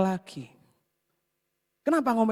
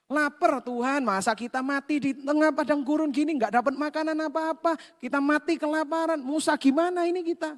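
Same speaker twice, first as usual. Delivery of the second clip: higher, whining complaint of hungry people; whiny grumbling; 6 semitones higher than usual. Retold or imitated. Israelites in the desert whining to God, higher and complaining. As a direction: moan to God like a hungry crowd. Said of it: "Ngomel-ngomel".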